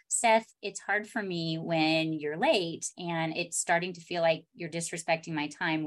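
soft and gentle. Shown as a demonstration. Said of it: "that was such an elegant way".

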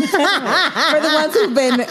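giggling. Real, not acted. Giggling while introducing.

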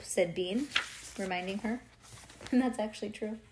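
plain reading voice

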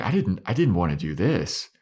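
mock whiny panic with swooping pitch; freaking out. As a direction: act out a mild freak-out, protesting helplessly. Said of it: "start freaking out".

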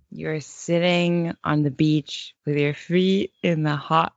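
measured meditation-leader voice; mock guided meditation. Host inventing a meditation for co-host, measured and soothing. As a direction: guide them gently onto the beach.

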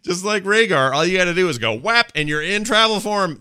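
high, loud, laughing enthusiasm; excited gushing. Real, not acted. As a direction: rave about it with glee. Gushing about druid travel form.

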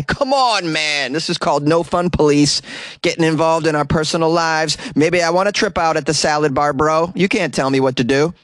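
mock protest. Host as a stoner complaining about the no fun police, whiny. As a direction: play a fed-up stoner whining.

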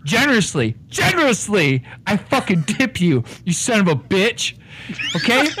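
blustering Irish con man; Irish accent. Acted. Con man insisting to the bartender, in an Irish accent. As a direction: lay on the Irish brogue, talking him down.

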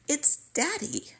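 the father announcing himself on the phone; father's voice. Retold or imitated. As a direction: voice the old dad claiming her.

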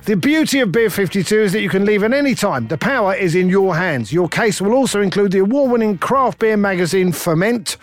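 punchy, even sponsor read; podcast ad read. Acted. Host thanking the beer sponsor, in ad-read style. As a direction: sell it with emphatic, rounded phrasing. Reads sponsor ad over music.

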